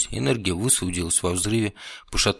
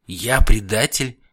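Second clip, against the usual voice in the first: loud, slow, stunned question; shocked disbelief; 2 semitones higher, 8 dB louder, slower than usual. Acted. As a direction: repeat the accusation in disbelief. Shocked at being called traitor.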